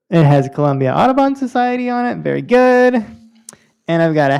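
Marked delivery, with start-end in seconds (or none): 0.1-3.0 delighted opening a present. Real, not acted.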